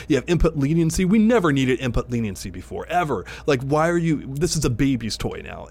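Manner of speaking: getting carried away ranting; losing it. Real, not acted. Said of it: "I'm losing it here".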